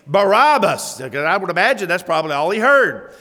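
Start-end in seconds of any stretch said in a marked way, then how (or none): 0.1-1.0 crowd screaming. Retold or imitated. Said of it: "excited voices screaming".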